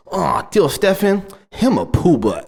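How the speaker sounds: put-on high, slow little-girl voice, teasing; imitating his daughter. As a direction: drag it out like a cheeky little girl. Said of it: "She like".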